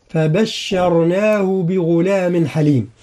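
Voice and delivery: slow Quranic chant; Quran recitation. Shown as a demonstration. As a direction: recite the verse with tajweed. Recites the verse. (تلاوة مجودة بطيئة)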